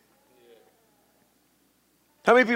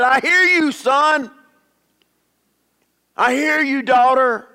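raised, louder reassuring voice of the Lord; voice of God answering; 6 semitones higher, 4 dB louder than usual. Retold or imitated. Preacher voicing God answering his cry, warm and raised. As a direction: speak as God comforting his child. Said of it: "and he said".

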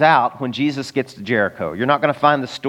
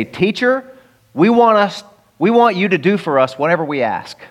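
brash demand; 5 semitones higher than usual. Retold or imitated. Disciples' blunt demand to Jesus.

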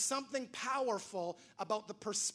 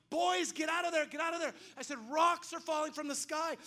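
alarmed shout; 6 semitones higher than usual. Retold or imitated. Father yelling at the boys in the war zone: alarmed shout. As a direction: get them out of danger now. Calling kids out of danger.

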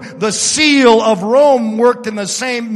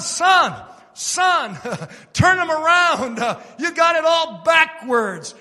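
mild mock shout; 5 semitones higher than usual. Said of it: "the father shouted out to the son".

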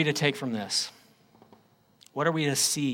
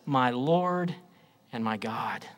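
much softer and lower, falling away; hushed; 5 semitones lower, 5 dB quieter than usual. Acted. Preacher softly repeating Thomas's confession to the congregation. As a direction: breathe it out in awe.

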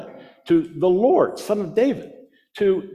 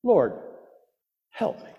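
soft plea; 3 semitones lower, 5 dB quieter than usual. Retold or imitated. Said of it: "knelt before Jesus and said".

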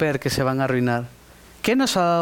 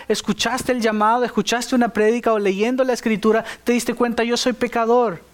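fervent preaching; 5 semitones higher than usual. Acted. Preacher voicing God's call.

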